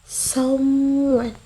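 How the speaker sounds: someone with SOME drawn out; stress on someone's first syllable. Shown as a demonstration. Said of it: "as seen in the word".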